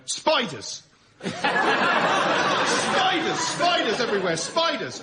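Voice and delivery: high, frantic cry of spiders; a friend feigns madness to scare off a mugger, screeching high and wild; mock mad shrieking. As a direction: shriek it like a madman scaring off a mugger. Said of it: "started going".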